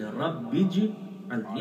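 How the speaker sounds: رب اجعلنی slow and soft, رب kept apart from اجعلنی; correct Arabic pronunciation. Shown as a demonstration. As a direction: recite رب اجعلنی carefully, slowly. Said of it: "صحیح تلفظ یہ ہے". (رب اجعلنی صحیح تلفظ، آہستہ اور صاف)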